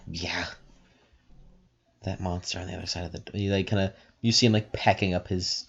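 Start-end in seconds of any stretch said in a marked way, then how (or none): 0.1-3.4 sigh, then low, very soft answer; quiet confirmation under the breath; hushed reply. Acted. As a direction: keep your voice down, uneasy secret. Answers a whisper, hiding from monster.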